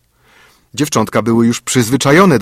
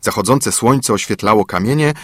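plain reading voice

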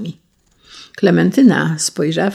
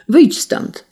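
high, sharply raised order; calling out; 9 semitones higher, 4 dB louder than usual. A narrator's reading. Prince ordering the intruder out again, calling out. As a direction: call it out on a jump in pitch. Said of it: "zawołał drugi raz".

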